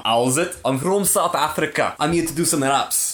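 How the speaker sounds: lightly put-on South African accent; comic touch of a South African rapper. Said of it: "South African accent, I think, is the most underused".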